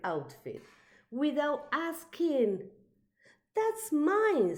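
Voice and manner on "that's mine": high, loud and possessive; indignant cry. A narrator's reading. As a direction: claim it like a child guarding a toy. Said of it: "said Elmore".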